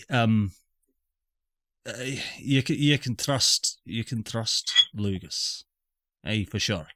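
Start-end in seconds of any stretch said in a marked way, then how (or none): 1.8-6.9 put-on accidental Scottish accent. Janus vouching for Lugus, in a wobbly Scottish accent. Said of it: "I've s-, gone Scottish".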